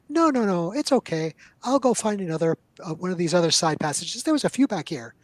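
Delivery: flustered retreat, talking fast; halfling backing away from the goblins, nervous and rising. Acted.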